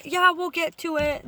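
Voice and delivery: a light sarcastic imitation of office staff; mocking dismissive reply. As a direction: mimic the staff putting him off.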